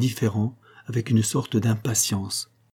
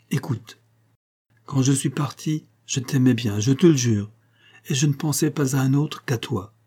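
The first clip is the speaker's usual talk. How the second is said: slightly raised, pleading confession; earnest confession; 3 semitones higher than usual. Acted. Monique owning up to Marin that another loved her, earnest confession. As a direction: confess it urgently, a little higher.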